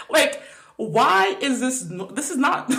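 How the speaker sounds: high, giggling disbelief breaking through the words; laughing in disbelief. Real, not acted. Telling viewers about the doctor, laughing in disbelief. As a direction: laugh it out, unable to believe the doctor.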